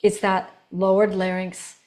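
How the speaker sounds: low, settled, matter-of-fact authority. Shown as a demonstration. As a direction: drop into a low commander pitch. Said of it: "the pitch is lower".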